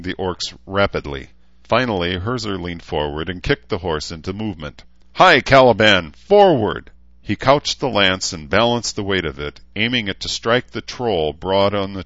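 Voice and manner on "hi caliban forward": high, loud charge call; battle cry. Acted. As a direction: yell the horse forward. Knight spurs horse into charge.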